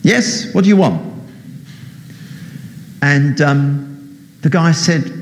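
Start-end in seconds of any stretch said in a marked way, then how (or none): 0.0-1.0 voice from above. Acted. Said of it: "there was a voice from above".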